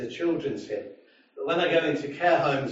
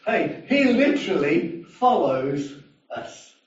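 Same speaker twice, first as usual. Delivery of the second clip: slow emphatic; 4 dB louder, slower than usual. Acted. Preacher stressing the point.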